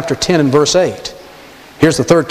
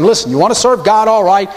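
higher, mock generous grant; Pharaoh conceding; 4 semitones higher than usual. Preacher acting Pharaoh giving way to Moses, higher. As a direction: wave Moses off like a magnanimous king. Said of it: "He's saying".

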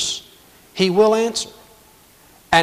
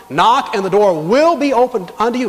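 "will" punched in a raised voice; stress on WILL; 5 semitones higher, 4 dB louder than usual. Acted. Preacher quoting Jesus on prayer, stress on "will". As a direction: hit "will" hard as a certainty. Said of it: "Not could be, should be, would be, but will be".

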